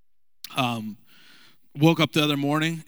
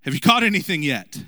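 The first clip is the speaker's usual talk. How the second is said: mild mock yell; 3 semitones higher, 4 dB louder than usual. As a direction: call out across the water, a bit louder. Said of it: "So he yells from shore".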